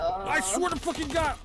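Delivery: loud, high, slow exasperated yell; frustrated shout. Real, not acted. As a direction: drag it out in disbelief. Dies falling, frustration.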